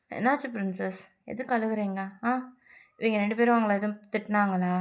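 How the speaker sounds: soft fatherly reassurance; tender comfort. Acted. Father comforting crying daughter.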